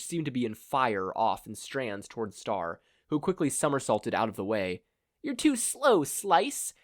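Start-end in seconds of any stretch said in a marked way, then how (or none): 5.2-6.7 high, loud mocking shout; cocky shouted taunt. A narrator's reading. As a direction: yell the taunt across the fight. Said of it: "shouted a man".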